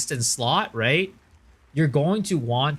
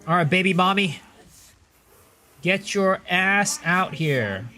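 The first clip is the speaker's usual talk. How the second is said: higher, slow, drawn-out cartoon taunt; exaggerated cartoon intonation; 7 semitones higher, 5 dB louder than usual. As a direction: stretch it like a cartoon villain tease. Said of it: "repeated with more exaggeration".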